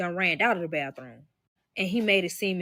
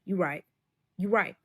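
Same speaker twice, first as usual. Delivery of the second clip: low, hushed aside to oneself; quiet, sheepish realization, pitched down; inner thought; 4 semitones lower, 6 dB quieter than usual. Retold or imitated. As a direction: think it aloud, quick and under the voice. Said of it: "in the back of my head".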